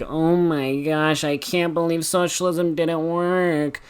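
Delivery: high, slow whiny caricature; whiny liberal voice. Acted. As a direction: stretch it out like an outraged liberal. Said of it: "when I do that whiny liberal voice".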